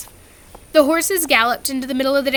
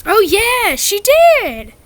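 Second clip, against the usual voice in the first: hasty agreement; 9 semitones higher, 8 dB louder, much slower than usual. A narrator's reading. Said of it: "nudging Harry and Ron".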